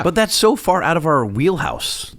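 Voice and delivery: slow, dry sarcasm; sarcastic. Real, not acted. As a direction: say the opposite of what you mean. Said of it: "I'm being sarcastic".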